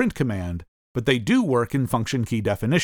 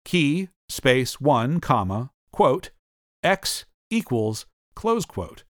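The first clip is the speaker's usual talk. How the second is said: dictating; much slower than usual. Shown as a demonstration. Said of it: "define the function keys F one and F three as follows".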